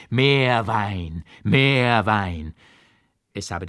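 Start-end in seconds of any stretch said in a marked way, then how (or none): 0.1-1.2 louder bellow for wine; yelled demand. Retold or imitated. Drunken monk yells for more wine, loud. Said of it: "geschrien habe". 1.4-2.5 louder bellow for wine; yelled demand. Retold or imitated. Drunken monk yells for more wine, loud. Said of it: "geschrien habe".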